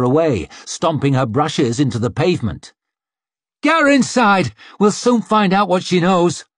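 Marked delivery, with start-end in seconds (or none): 3.6-6.5 high, loud, aggressive command; shouted order. A narrator's reading. Attacker to the mob seizing the maid, shouted order. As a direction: shout it over a riot.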